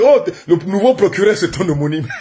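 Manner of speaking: teasing jibe, lifted at the start; mocking. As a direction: imitate inmates poking fun. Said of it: "tout le monde s'est moqué".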